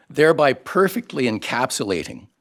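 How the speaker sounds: normal talking voice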